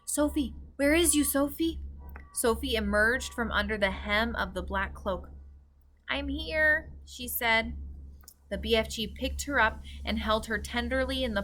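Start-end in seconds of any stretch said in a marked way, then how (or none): 0.0-1.8 1 calling out. A narrator's reading. BFG calling for Sophie. 6.1-6.9 put-on 1 small girl. A narrator's reading. Sophie's voice.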